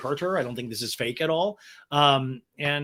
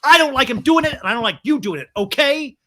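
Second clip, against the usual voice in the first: much higher, much louder sharp scolding; mock stern scold; 9 semitones higher, 10 dB louder than usual. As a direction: clap and snap at both of them. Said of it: "Ariana slaps her hands together and goes".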